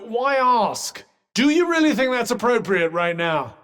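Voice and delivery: high-pitched, indignant telling-off; exasperated scolding. Acted. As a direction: scold a distracted partner mid-fight. Scolding companion during a fight.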